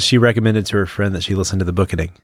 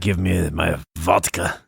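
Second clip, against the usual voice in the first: slow, hammed-up Russian accent; mock Russian accent; 3 semitones lower, slower than usual. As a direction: drag out the words in a jokey Russian accent. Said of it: "I need you to do a Russian accent".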